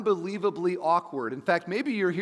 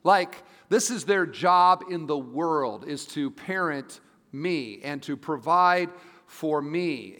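lightly mocked kid's complaint, drawn out; slow, raised, emphatic know-it-all kid; voicing the kids; slower than usual. Pastor mimicking kids about their parents, lightly mock dismissive. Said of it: "'cause you just think".

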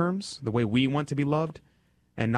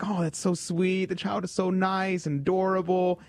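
doting; 7 semitones higher than usual. Retold or imitated. Parent cooing at a hugging child, mildly higher. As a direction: coo over a sweet child. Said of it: "you're like".

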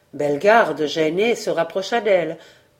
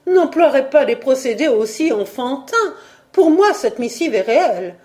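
put-on pleading young woman; 6 semitones higher, 3 dB louder than usual. A narrator's reading. Simone pleading with Jacques.

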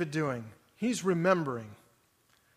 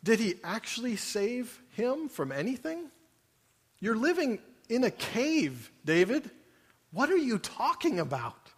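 incredulous doubter; 4 semitones higher, 3 dB quieter than usual. Acted. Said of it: "and I'm like".

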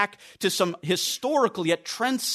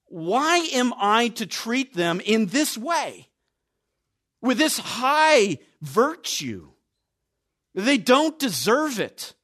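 indignant objector; 5 semitones higher, slower than usual. Retold or imitated. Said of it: "it'd be very easy for them to, to think".

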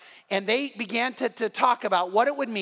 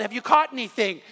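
louder, imitating a call from afar; raised-voice retelling of a shouted question; retold yell; 5 dB louder than usual. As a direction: call it out as a mild mock yell. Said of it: "then someone yelled".

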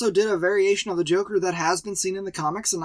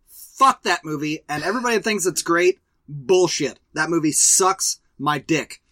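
angry rant; 4 dB louder than usual. Real, not acted. Ranting about hated movie.

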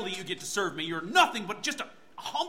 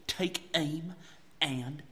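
loud sharp fire; firing call; 5 semitones lower, 4 dB louder, much slower than usual. Acted. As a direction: release the arrow with a cry. Archer releasing arrow.

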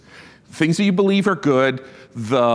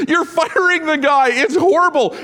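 high, louder words through laughter; laughing outrage; 13 semitones higher, 4 dB louder than usual. Real, not acted. Preacher protesting the coach's firing while laughing.

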